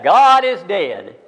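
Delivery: loud slow proclamation. Acted. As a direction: proclaim "God is dead." loud and very slow, leaning on God. Repeating the headline for emphasis.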